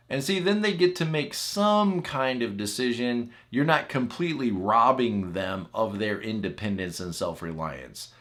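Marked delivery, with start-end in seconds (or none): none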